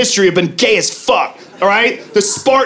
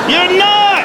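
pitched way up on the repeat; high, drawn-out comic disbelief; incredulous insistence; 12 semitones higher than usual. Acted. Comic refutes the woman's boast, high-pitched insistence.

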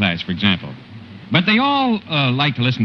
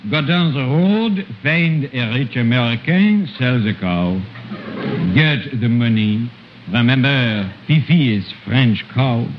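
put-on storyteller with a thick French accent throughout; 2 semitones higher than usual. Comic uncle retelling Jack and the Beanstalk in French accent. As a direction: tell the fairy tale in broken French-accented English.

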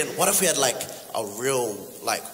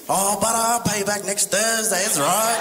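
higher, cheeky promise to pay back; a breezy, higher IOU from the PM; lightly voiced cheeky PM stalling the debt; Buru brushing off debt; 7 semitones higher than usual. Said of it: "Like, how would it go?".

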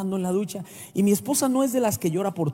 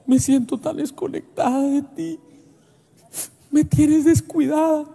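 wife's complaint; 5 semitones higher, 4 dB louder than usual. Retold or imitated. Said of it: "mi esposa dice".

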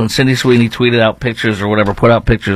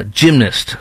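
ordinary talk

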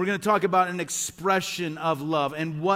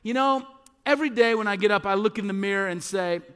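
put-on child piping up; 2 semitones higher than usual. Pastor imitates own child in the truck, piping up. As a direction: pipe up like a child to Dad. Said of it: "I heard them pipe up".

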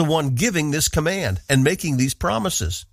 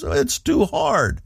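discouraged; 8 semitones higher, much slower than usual. Retold or imitated. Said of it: "A person who's discouraged looks at the problems and says".

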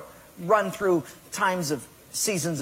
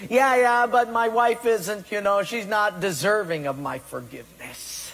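making excuses; 3 semitones higher than usual. Retold or imitated. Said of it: "we have all these excuses".

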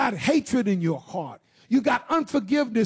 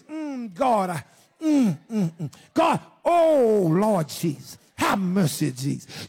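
demonstrated moaning prayer; 2 semitones lower, slower than usual. Shown as a demonstration. Preacher showing the congregation what the spirit's moan sounds like, wordless moaning prayer. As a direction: groan out a prayer with no real words. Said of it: "Just, just that moan, that cry".

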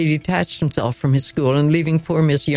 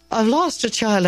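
breathless; 7 semitones higher than usual. A narrator's reading. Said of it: "I began breathlessly".

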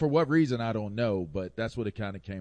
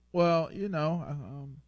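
put-on higher, stalling kid caught out; explaining out of trouble; 8 semitones higher, slower than usual. Kid cornered by parents, hedging nervously. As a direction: stammer as if hunting for an excuse. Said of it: "That's how I sounded when I was trying to explain myself out of trouble".

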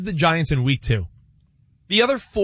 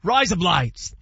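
put-on Australian accent; slower than usual. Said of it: "in an Australian accent".

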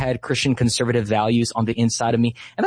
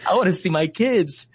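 emotional; 4 semitones higher than usual. Real, not acted. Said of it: "I'm getting emotional talking about it".

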